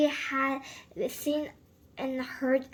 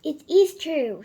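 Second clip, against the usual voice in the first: triumphant; 3 semitones higher, 10 dB louder than usual. A narrator's reading. Triumphant reveal to the crowd.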